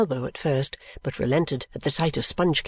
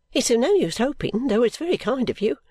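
put-on higher, sulky young Caddy; young girl's voice; 7 semitones higher than usual. A narrator's reading. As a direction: pitch it higher, a put-upon girl.

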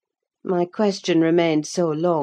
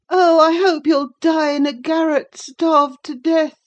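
spiteful curse; 12 semitones higher, 7 dB louder than usual. A narrator's reading. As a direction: spit the curse at the absent servant. Linton curses his attendant.

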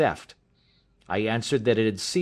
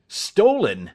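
higher-pitched, indignant echo; acted startled exclamation; shocked cry; 5 semitones higher than usual. A narrator's reading. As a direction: cry it out in disbelief. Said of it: "he cried".

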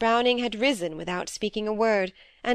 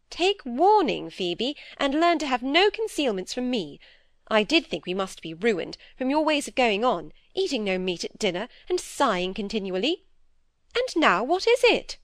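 a lightly voiced stern older sister, a bit raised; stern elder sister; 4 semitones higher than usual. Dorothy lecturing Phoebe about her sighing, lightly voiced stern scolding. Miss Browning demands the news.

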